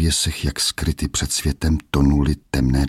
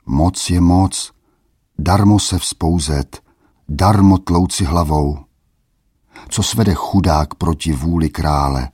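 a hint of a worried old man; old grandfather pleading. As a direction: plead gently through a door with the boy. Old forester pleads through door.

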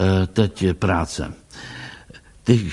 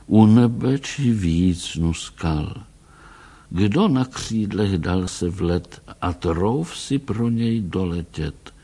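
poem recitation. A narrator's reading. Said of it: "recitoval Tracy".

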